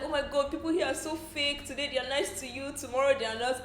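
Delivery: lightly voiced upset housemate; mock whiny Kaisha. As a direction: play up her hurt. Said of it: "she's like".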